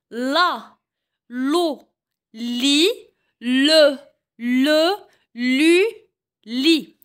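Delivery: chaque syllabe en « j » détachée avec soin; syllabes articulées. Shown as a demonstration. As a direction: montre la syllabe, puis une pause. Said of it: "لاحظوا جيدا النطق". (syllabes en « j » dictées au professeur)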